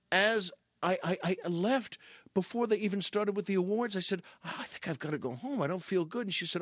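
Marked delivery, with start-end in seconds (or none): 4.4-6.3 soft, feeble excuse to go home; retold under-the-weather murmur; feeling unwell. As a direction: mumble it softly as if poorly.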